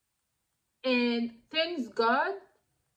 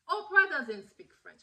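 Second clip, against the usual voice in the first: higher voice, firm falling statement; retold matter-of-fact correction; 5 semitones higher than usual. Partner telling Mary about Oprah's language, firm correction. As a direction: imitate him setting someone straight.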